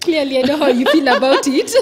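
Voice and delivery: high, loud laughing remark; cracking up while talking. Real, not acted. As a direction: tease her through a big laugh. Host laughs at guest's scorn.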